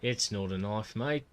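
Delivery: hammed-up Aussie movie line; Australian twang, lifting on the last word; Australian accent. Shown as a demonstration. Streamer attempting an Aussie catchphrase, Australian accent.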